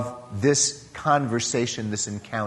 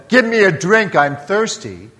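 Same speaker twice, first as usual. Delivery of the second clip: louder, commanding "Give me a drink"; demand; 3 semitones higher, 5 dB louder than usual. Shown as a demonstration. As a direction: bark "Give me a drink" as an order. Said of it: "this is not a demand".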